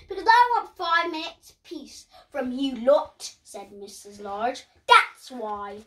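firm Mum voice. Acted. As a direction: tell the kids off a little. Mum answers the children sharply.

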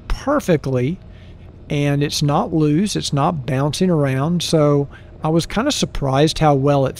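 muffled through closed visor; speaking behind helmet chin bar; inside a motorcycle helmet. Real, not acted. Seen 1: Visor down, closed helmet and neck buff worn throughout, not in R frames.

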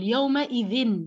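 slow يومئذ, drawn out to "-ðin"; يومئذ said slowly with the tanween sounded; kasra before tanween. Shown as a demonstration. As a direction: stretch يومئذ and land on kasra, then n. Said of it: "التنوين بقول يومئذ".

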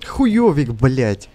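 raging gamer. Real, not acted. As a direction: swear at a teammate. Swearing at failed teammate.

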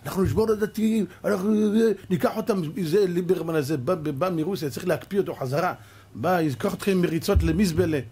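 mock politician. Preacher mocks secular politicians, lightly sneering. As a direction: sound like a hostile politician.

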